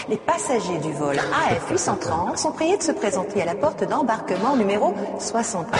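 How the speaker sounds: airport announcement. Pretend.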